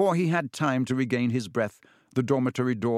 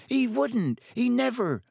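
slow, high roaring protest; 12 semitones higher than usual. A narrator's reading. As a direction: roar it out in defence. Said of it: "roared the boy".

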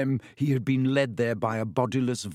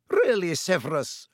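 sharp, raised rebuke; sharply; 6 semitones higher than usual. A narrator's reading. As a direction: snap it out as a reproach. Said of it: "said Professor McGonagall sharply".

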